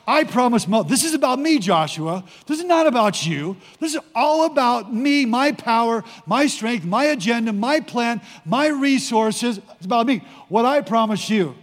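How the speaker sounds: God insisting, punching "me" and each "my"; emphatic on me and my. Acted. Preacher as God telling Joshua it is all about him, emphatic on me and my. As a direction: lift "me", then hit every "my" in the list. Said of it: "where's the emphasis?".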